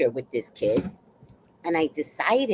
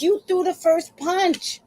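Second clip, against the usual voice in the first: mock scolding; 10 semitones higher, slower than usual. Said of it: "I'm like".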